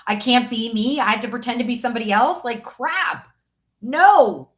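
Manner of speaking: 1 retold outburst.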